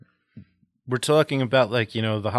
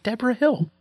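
excited realization; 11 semitones higher than usual. Retold or imitated. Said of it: "I'm like".

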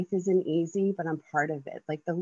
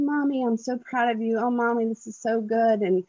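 excited son; 5 semitones higher than usual. Retold or imitated. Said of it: "like, super excited".

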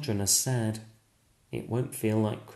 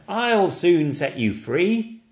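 much higher and louder reassuring call; eager call; 9 semitones higher, 7 dB louder, slower than usual. Acted. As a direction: call up the chimney to help. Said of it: "cries Stickman".

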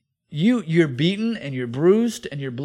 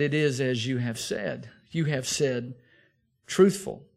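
calm answer; 4 semitones lower than usual. Acted. Preacher voices Jesus answering calmly.

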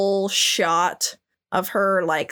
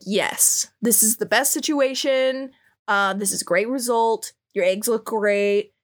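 corporate manager voice. Retold or imitated. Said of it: "like, a manager at Verizon".

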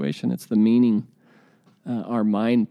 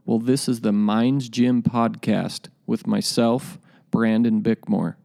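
booming motivational speech. Acted. Podcast intro over music.

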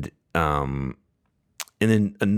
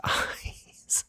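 real laugh breaking into the story; 7 semitones higher, 6 dB quieter, much slower than usual. Real, not acted. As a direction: try to tell it through laughter. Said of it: "I'm, I'm laughing 'cause it is funny".

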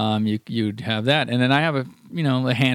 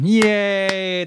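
cheering; 7 semitones higher than usual. Pretend. Fanfare for the old console.

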